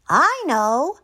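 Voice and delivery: high, excited frog voice; Froggy crying out. A narrator's reading. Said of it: "cried Froggy".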